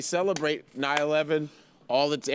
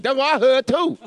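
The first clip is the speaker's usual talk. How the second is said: higher, much louder put-on Asian accent; mock Asian accent; 9 semitones higher, 7 dB louder than usual. Retrying the friend's line in a loud mock Asian accent. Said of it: "Asian guy that grew up in a black neighborhood".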